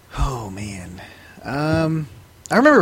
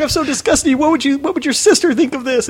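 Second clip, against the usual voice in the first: imitating mom, high-pitched scolding; disgusted mom; 10 semitones higher, 4 dB louder than usual. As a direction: scold like a horrified mother. Mom scolds son again.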